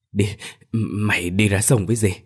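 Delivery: halting, choked acted urging; breathless from crying. A narrator's reading. Bà Cảnh urges Soan to the river, choked and breathless. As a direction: barely get the words out through tears. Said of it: "miệng nói không ra hơi".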